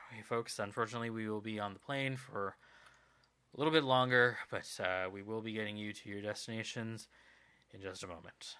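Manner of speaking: low, subdued intercom voice; weary pilot announcement. Acted. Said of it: "over the intercom you hear a very big sigh".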